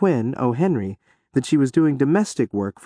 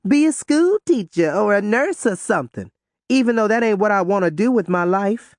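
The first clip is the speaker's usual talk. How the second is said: put-on complaining teen girl; 7 semitones higher than usual. A narrator's reading. Ruby complains.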